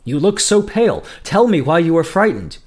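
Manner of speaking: a touch of teasing concern; amused. A narrator's reading.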